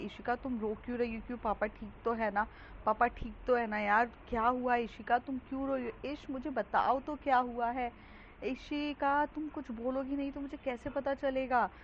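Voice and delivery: a touch of anxious worry, rising toward the end; scared and worried. Retold or imitated. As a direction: ask urgently, a little frightened. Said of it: "डरते हुए कहती है".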